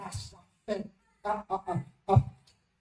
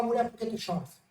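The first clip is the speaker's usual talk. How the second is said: gentle voice of Jesus; 9 dB quieter than usual. Acted. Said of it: "Jesus para na frente da mulher e fala".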